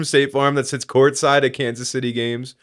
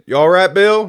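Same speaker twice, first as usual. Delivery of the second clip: higher, loud call to a coworker; calling from the background; 8 semitones higher, 7 dB louder than usual. Retold or imitated. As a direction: shout over to check on someone. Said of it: "hear out of the background".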